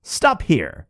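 high sharp call to halt; little man calling out; cried out. Acted. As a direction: stop him in his tracks. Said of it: "one of them cried out to him".

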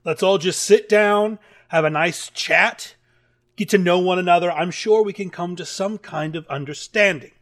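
soft, low peacemaker voice; calm and soothing. Acted. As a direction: talk them down gently. Moonshadow calming the griffins.

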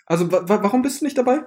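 stammering between sips; slurping the drink, then asking; while sipping a drink. Pretend. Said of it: "nach jeder Frage schlürf ich".

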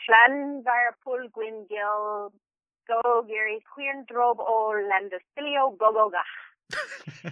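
Llanfairpwllgwyngyll and the rest slowly sounded out, syllable by syllable; very slow, drawn-out try at Llanfairpwllgwyngyll, run on as one long word; attempted Welsh place name. Shown as a demonstration. Guest tries longest place name for fun, careful Welsh attempt at Llanfairpwllgwyngyll. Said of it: "okay, I'm gonna try to say it".

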